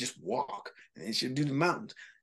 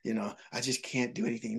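mock defeatist; 3 semitones lower, 6 dB quieter than usual. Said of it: "they say things like".

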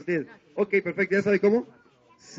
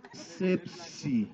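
laughing; 5 semitones lower than usual. Acted. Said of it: "clown names the dance".

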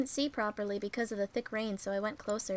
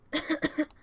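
sick cough; 6 semitones higher, 4 dB louder than usual. Acted. Feverish boy coughs.

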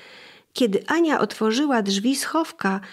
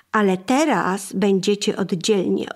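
calm and composed. Acted. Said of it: "nie tracąc spokoju".

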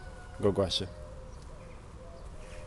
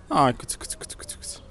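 whispered cat call; 4 semitones higher than usual. Real, not acted. Parent coaxing the shy cat Rolly, whispering. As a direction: whisper it so the cat isn't scared.

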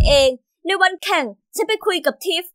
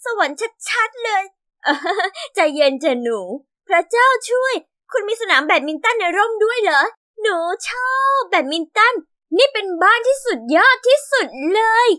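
higher, bubbling with delight; thrilled girl; 4 semitones higher than usual. Acted. Girl gushes to her aunt about the house, thrilled and higher. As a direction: gush over every room like a giddy kid.

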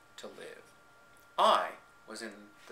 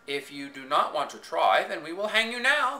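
menacing; 3 semitones higher, 3 dB louder than usual. Acted. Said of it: "the king said with menace".

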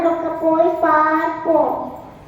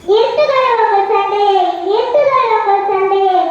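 commanding call; 4 dB louder than usual. Acted. God scolding fighting people.

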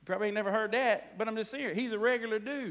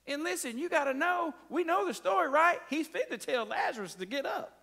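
higher, louder, rising preacher fervor; fired-up preaching; 8 semitones higher, 4 dB louder than usual. Real, not acted. Preacher rousing his congregation: higher, louder fervor. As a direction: get fired up and push it out to them.

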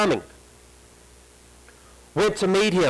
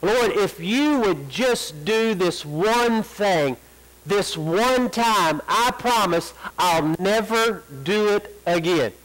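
mock pleading prayer; 2 semitones higher, slower than usual. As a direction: plead slowly like a bargaining believer. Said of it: "that's the prayer that you pray today".

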